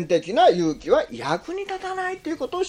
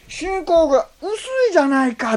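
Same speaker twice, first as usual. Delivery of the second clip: mild rebuke; 7 semitones higher than usual. Shown as a demonstration. Preacher quoting Jesus's actual words, mild. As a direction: chide gently. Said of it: "って言ったんですね".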